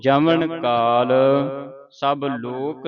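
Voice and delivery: slow, drawn-out measured chant of the line; scripture recitation. Shown as a demonstration. Teacher reciting a verse for students to follow, slow measured chant. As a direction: recite it slowly, holding the long vowels.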